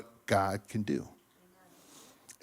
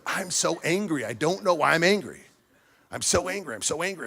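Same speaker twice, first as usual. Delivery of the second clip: mock venting, pitched higher; imitated anger; 6 semitones higher, 4 dB louder than usual. Imitating a new father angry at everything, worked-up venting. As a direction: vent it repeatedly, a retold outburst. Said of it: "I am so angry at everything".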